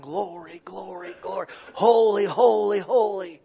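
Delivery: high, loud shouted praise; ringing shouts of glory; angels shouting. Retold or imitated. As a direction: belt it out like a heavenly choir. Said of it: "all the angels are shouting".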